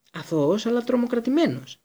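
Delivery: high, terrified cry rising on the last word; frightened yelp. A narrator's reading. Pettigrew squealing at his accusers in terror. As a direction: squeal it in panic. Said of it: "έσκουξε ο Πέντιγκρου".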